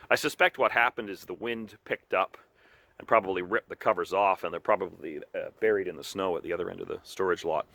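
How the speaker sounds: a slight cold shiver in the voice; shaky voice from cold. Real, not acted. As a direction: voice shaking in the freezing air. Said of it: "my voice sounds a little shaky".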